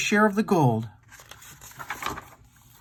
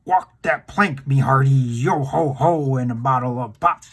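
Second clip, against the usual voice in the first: rough pirate roar; 4 semitones lower than usual. Acted. Ghost pirate calls from the darkness to scare the gang, mock roar. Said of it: "wild, rough voice roared out of the darkness".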